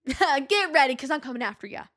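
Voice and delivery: playful challenge. Acted. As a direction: tease a celebrity chef with a mock threat.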